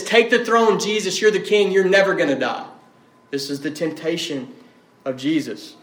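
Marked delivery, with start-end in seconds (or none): 0.0-2.7 tempting voice. Retold or imitated. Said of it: "He says".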